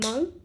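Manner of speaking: "monkey" broken as mon, key; "monkey" with a clear gap between its syllables; split into syllables. Shown as a demonstration. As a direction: clap out "monkey" in two separate beats. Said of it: "monkey has two syllables".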